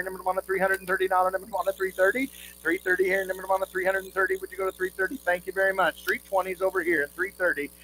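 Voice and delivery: rapid rhythmic bid chant; auctioneer. Real, not acted. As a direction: rattle off the bids in a singsong roll.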